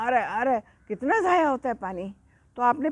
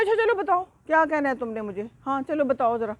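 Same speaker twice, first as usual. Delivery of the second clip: higher-pitched, grudging mock irritation; mildly annoyed; 4 semitones higher than usual. Elder goat lets the other explain, mildly annoyed. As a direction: act a touch cross while agreeing to listen. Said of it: "بڑا ذرا غصے میں آ کے نا".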